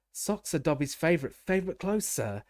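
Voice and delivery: high anxious squeak; squeaky house elf. A narrator's reading. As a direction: squeak it out nervously. Dobby voice held.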